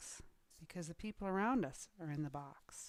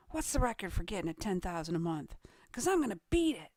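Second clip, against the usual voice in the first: quick, eager mock phone boast; fired-up excitement; 4 dB louder, faster than usual. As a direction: rush it out, punching the last line. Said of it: "You're all fired up and excited".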